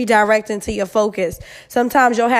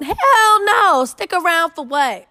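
shocked outburst; 7 semitones higher, slower than usual. Real, not acted. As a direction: shriek it in disbelief. Outraged answer to letter.

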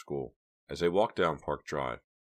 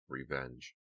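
echoing whisper; 2 semitones lower, 8 dB quieter than usual. A narrator's reading. Remembered caller's threat.

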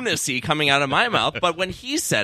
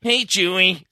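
lightly put-on, lifted comic voice; a tentative comic character voice; Pee-wee Herman; 3 semitones higher, 3 dB louder, slower than usual. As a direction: try out a cartoonish man-child greeting. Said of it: "I think I can do Pee Wee now".

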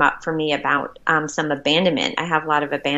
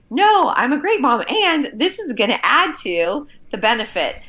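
self-assured; 7 semitones higher than usual. Retold or imitated. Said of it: "I caught myself and I'm like".

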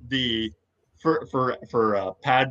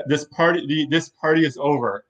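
Sam Jackson impression; 3 semitones higher than usual. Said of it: "Classic Sam Jackson".

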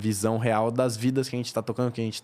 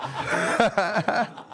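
high burst of laughter; 9 semitones higher than usual. Real, not acted. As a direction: break into a big laugh. Gargalhada sozinha na linha. (gargalhada alta)

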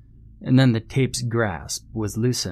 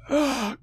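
high-pitched breathy mock scream; agonized scream. A narrator's reading. Injured boy keeps screaming after his fall, mild high scream. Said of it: "Billy screamed".

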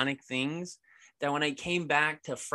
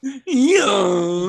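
excited shout; 6 semitones higher, 9 dB louder than usual. Real, not acted. Hyped shout-out to Blaze.

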